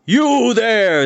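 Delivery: loud booming call from above; thundering call. A narrator's reading. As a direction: boom it down at them from above. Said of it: "thundered the voice above them".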